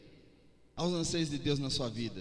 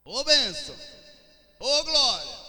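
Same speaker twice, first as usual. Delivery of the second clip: loud, high shout of praise; loud joyful hallelujah; exultant praise; 10 semitones higher, 9 dB louder than usual. Real, not acted. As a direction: cry out in joy to God.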